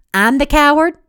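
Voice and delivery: rising angry disbelief. A narrator's reading. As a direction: throw the insult back, raising the voice. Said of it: "His voice rose".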